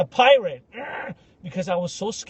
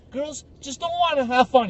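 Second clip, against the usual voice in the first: annoyed answer; 8 semitones higher than usual. Retold or imitated. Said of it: "And then they were like".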